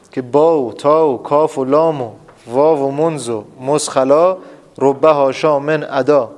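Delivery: slow, measured mnemonic verse; verse recitation. Shown as a demonstration. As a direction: recite it slowly like a memorised rhyme. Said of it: "در قالب شعر بگم". (شعرخوانی آهسته و موزون)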